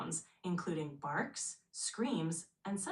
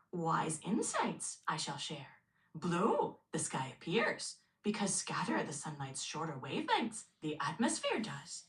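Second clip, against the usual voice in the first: Yoda voice. Pretend. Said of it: "speak in the voice of Yoda so that you sound very wise".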